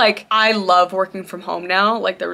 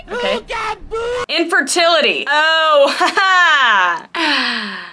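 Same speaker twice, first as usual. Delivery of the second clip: panicked yelp; 8 semitones higher, 6 dB louder, much slower than usual. Real, not acted. Cry shout and nervous laugh.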